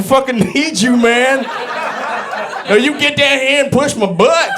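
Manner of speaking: high, pleading buddy voice; mock desperate plea; whiny needy friend. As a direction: beg him to come push. Bit voicing a needy friend.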